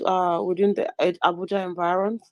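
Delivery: choked-up throat, straining words; choking. Real, not acted. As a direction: talk through a choking throat. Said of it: "I'm choked".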